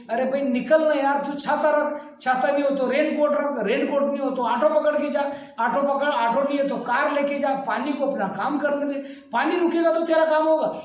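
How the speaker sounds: mildly exasperated, quick-fire pep talk; exasperated urging. Retold or imitated. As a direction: urge a reluctant friend to get moving. Acts out urging a hesitant man.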